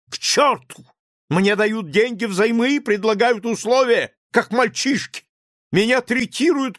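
high, loud, near-hysterical shout. A narrator's reading. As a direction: scream it out, shaking with nerves. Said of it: "крикнул Лаевский". (кричит в истерике, высоко и громко)

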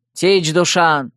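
slow, stern summons; stern bark. A narrator's reading. Dark-haired man calls Dushan to order, stern bark. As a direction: rap out the name sternly, drawn out. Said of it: "сурово рявкнул".

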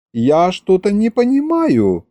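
put-on high, mildly bewildered girl; puzzled surprise. A narrator's reading. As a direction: voice it high, not grasping the problem. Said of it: "Маша удивлённо смотрела на нас".

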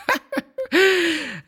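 shrill flattering laughter; high fawning laugh. A narrator's reading. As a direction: burst into a toadying giggle. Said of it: "Залился Брас".

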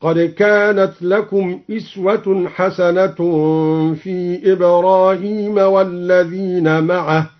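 أسوة recited with a kasra on the hamza; slow recitation, إسوة with an i; chanted, hamza on kasra. Shown as a demonstration. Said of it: "وكسر الهمزة في إسوة".

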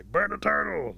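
high, loud rallying cry; mob shout. Acted. All the wolves condemning turtle, shouting. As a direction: shout it like a pack chanting for blood.

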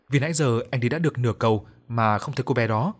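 usual speaking voice

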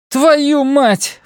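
high shouted curse. A narrator's reading. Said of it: "выкрикнула она".

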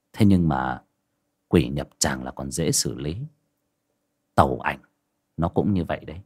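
low, measured explanation, slowing at the end; a hint of ominous lecturing; lightly voiced young master. Young master explaining the ghost, low and ominous.

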